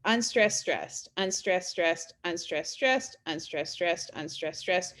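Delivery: five even "unstressed, stressed" pairs; iambic pentameter rhythm. Shown as a demonstration. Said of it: "five groups of I ams".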